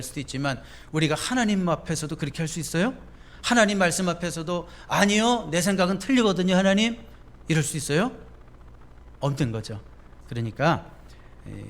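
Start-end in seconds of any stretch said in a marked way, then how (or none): 4.9-7.0 stubborn objection, a bit louder; talking back to God. Pretend. Preacher voicing a believer who objects to God, mildly defiant. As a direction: argue back like a defiant child.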